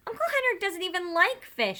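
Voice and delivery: put-on high, giggly silly girl voice; laughing girl. A narrator's reading. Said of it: "she said, laughing".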